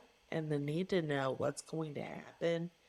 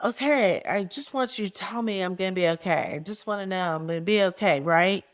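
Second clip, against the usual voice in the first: loud, pleading, higher retold yell; 4 semitones higher, 11 dB louder than usual. Begging her counselor to say she'll be okay, yelling. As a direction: shout it at him, begging for reassurance. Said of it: "I'm kinda yelling at him".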